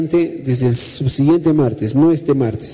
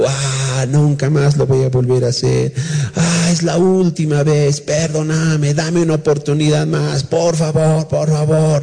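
mock pleading; slower than usual. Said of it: "dice, ¿no?".

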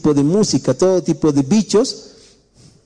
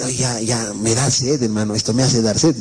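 mock partier; 5 semitones lower than usual. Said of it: "y empiezan a decir". (imitando a un fiestero sediento)

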